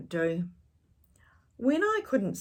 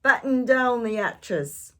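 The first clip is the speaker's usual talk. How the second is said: loud, high command; shouted order; 5 semitones higher, 8 dB louder than usual. A narrator's reading. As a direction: yell it across the deck. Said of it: "Braidbeard shouted".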